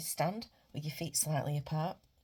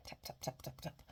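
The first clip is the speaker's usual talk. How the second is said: tapping count; 4 semitones lower, 10 dB quieter than usual. Shown as a demonstration. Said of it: "just start tapping it".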